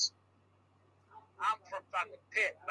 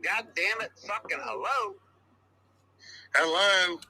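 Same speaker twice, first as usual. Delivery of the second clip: annoyed caller shouting hello; irritated, calling into a silent line; fed-up caller; angry hello; 4 dB louder, slower than usual. Acted.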